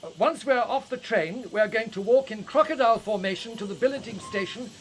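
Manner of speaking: put-on projecting over the train noise to the children.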